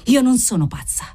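outburst climbing to a high cry; cried out. A narrator's reading. Sick girl insisting she wants the doctor, crying out. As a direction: build to a high-pitched, insistent yell. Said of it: "gridò ancora la fanciulla".

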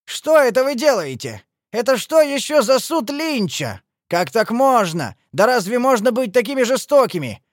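high, loud, indignant protest; scandalised cries, pitched high; appalled shouting. A narrator's reading. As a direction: plead loudly with outrage. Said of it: "крикнул он".

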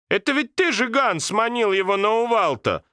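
sudden accusing realization; grandmother realizing. Acted. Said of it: "осенила бабушку".

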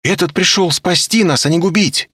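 high, loud triumphant cry; elated exclamation. A narrator's reading. Olga exclaims she was right, elated. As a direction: exclaim with vindication.

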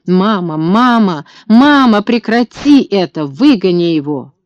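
rising panicked cries for mother; a frightened boy shrieking at the dog; terrified child screaming. A narrator's reading.

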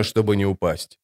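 ordinary delivery, nothing marked

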